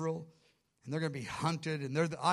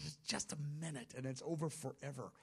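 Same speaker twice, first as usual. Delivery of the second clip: soft, comforting voice of Jesus; hushed reassurance; 2 semitones lower, 10 dB quieter than usual. Acted. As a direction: drop much softer, a gentle aside.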